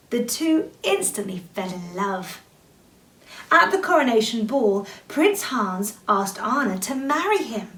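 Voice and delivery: steady bedtime story reading; children's story narration; storybook narration. A narrator's reading. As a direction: read it like a picture book to kids.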